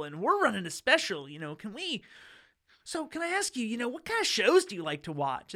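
high, loud and eager pitch, bright salesman patter; chirpy cable salesman at the door. Retold or imitated. Cable salesman pitching a homeowner at his door, eager and high.

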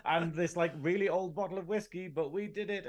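hammed-up drunk engineer crowing about his win; a tipsy triumphant Scotty, half-mocking; imitating Scotty. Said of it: "Scotty sort of goes".

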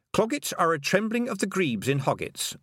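high-pitched textbook recital; reading aloud. A narrator's reading. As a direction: read it out like a medical entry. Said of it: "she read".

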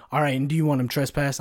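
imitated dispatcher turning serious; all seriousness. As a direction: ask it evenly, suddenly all business. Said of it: "in all, all seriousness, her voice changes".

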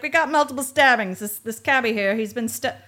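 loud newsboy yelling headlines; Newsies voice. Retold or imitated. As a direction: bark it like a street newsboy. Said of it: "giving him, like, a Newsies voice".

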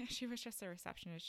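real laugh breaking into the words. Real, not acted. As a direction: start with a laugh, trying to tell it. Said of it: "I'm sorry, it's not funny".

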